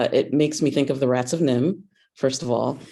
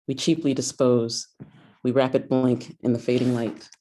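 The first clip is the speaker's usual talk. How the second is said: poetry reading. Acted. Reads her own poem.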